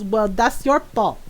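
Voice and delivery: put-on matter-of-fact mom with a Filipino accent; imitated Filipino mom. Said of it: "my mom just looks at him and goes".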